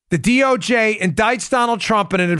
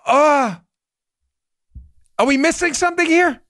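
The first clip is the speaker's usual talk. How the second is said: baffled juror; 4 semitones higher than usual. Acted. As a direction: play a juror who is lost. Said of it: "The jury would be like this".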